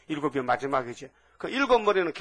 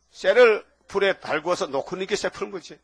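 emphatic laughing repeat. Shown as a demonstration. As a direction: spell it out again with a laugh. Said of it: "그것도 빨리 대답 못해요".

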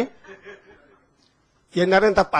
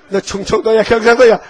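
mock sergeant shout; 3 semitones higher, 5 dB louder than usual. Drill sergeant interrogating recruits.

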